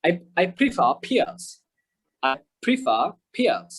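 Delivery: slow "prefer pears" with R's dropped; silent R. Shown as a demonstration. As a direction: leave "prefer" open-ended before "pears", no R. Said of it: "আরটা উচ্চারণ করবো না". (ধীরে, "prefer pears"-এ র ছাড়া)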